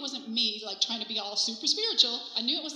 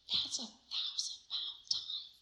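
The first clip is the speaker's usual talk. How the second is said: slow, stunned whisper; awestruck whisper; 6 dB quieter, much slower than usual. Acted. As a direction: whisper it as a dawning realization. Stunned realization, acted.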